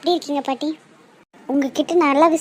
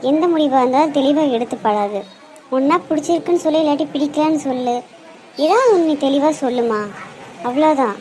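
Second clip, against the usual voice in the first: louder, firm scolding; stern lecture; 3 dB louder than usual. Acted. Grandmother louder, scolding the confused girl on the phone. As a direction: lay down the law, voice raised.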